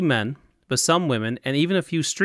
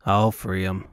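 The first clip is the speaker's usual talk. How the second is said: reassuring; 4 semitones lower than usual. Acted. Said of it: "he reassured her".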